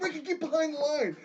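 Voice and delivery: high-pitched imitated coach order; mock coach order. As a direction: mimic the coaches nagging. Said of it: "they're all like".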